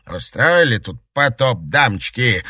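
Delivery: captain scolding the crying ladies, loud and indignant. Acted. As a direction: grumble loudly at the weeping women. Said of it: "возмутился капитан Бенедикт".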